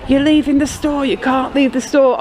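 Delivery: guard shouting after a shopper, hammed-up yell; retold shouting. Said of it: "He was shouting".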